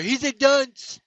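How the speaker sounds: a light stab at Trump's voice; half-hearted mock Trump delivery; Trump impression. Host mocking a rival podcaster, lightly voiced Trump. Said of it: "I can't do a Trump impression".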